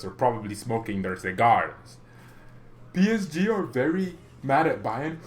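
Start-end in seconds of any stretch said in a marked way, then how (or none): 2.9-5.2 badly faked German accent with swooping pitch; put-on, wobbly German accent. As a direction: attempt a German accent and not quite get it. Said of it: "how to do the German accent".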